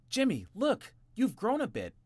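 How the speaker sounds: high, loud happy shout. A narrator's reading. Eldest brother shouts happily at Jimmy. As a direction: cheer the change. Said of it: "shouted the oldest brother happily".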